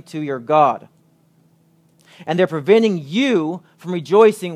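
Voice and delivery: urgent appeal. Acted. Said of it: "He's saying".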